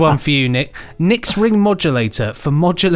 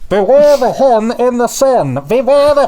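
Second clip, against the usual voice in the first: high, loud fighter pilot warning; hotshot pilot; 9 semitones higher, 7 dB louder than usual. Pretend. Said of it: "the voice of a fighter pilot".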